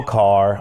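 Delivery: "car" with a clear final R; standard pronunciation. Shown as a demonstration. Host rejecting the other way, "car" with its R sounded. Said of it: "I don't drive no car".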